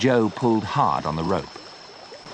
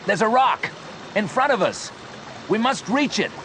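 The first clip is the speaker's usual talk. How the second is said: high, pressing call; urgent shout; 12 semitones higher than usual. A narrator's reading. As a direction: push him to act now. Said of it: "shouted Joe".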